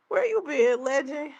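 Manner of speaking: excited call-out. Real, not acted. Greeting a returning chat viewer.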